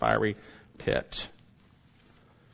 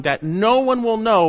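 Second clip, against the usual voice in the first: preaching peak; 10 semitones higher, 8 dB louder than usual. Real, not acted. Preacher building to climax.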